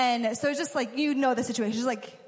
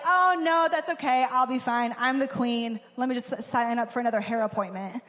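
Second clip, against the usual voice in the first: casual queen. Retold or imitated. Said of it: "She could have just been casual".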